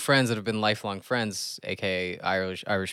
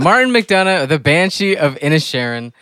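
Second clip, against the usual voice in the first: announcer voice; 6 semitones higher, 12 dB louder than usual. Pretend. Loud host relaunch of the topic.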